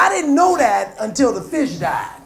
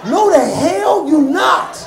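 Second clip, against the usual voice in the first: mock scolding; 5 semitones higher, 7 dB louder, much slower than usual. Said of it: "parent scolding kids".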